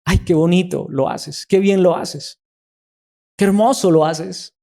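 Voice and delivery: acted flattering praise. Someone praising the church server, lightly acted admiration. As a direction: gush a little, drawing out the compliment. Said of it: "Estoy buscando es que me alaben".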